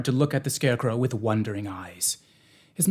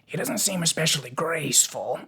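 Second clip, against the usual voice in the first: musing; 4 semitones higher than usual. Acted. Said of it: "he remarked musingly".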